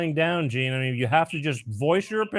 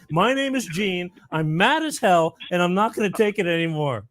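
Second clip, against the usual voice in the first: slow conviction. Shown as a demonstration. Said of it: "I want to say".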